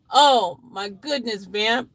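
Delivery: slow, drawn-out exclamation; mild mock horror. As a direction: exclaim it slowly with mild shock. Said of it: "in sudden horror".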